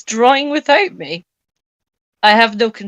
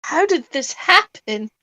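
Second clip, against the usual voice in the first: trembling; 6 semitones higher, slower than usual. Acted. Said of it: "in a trembling voice".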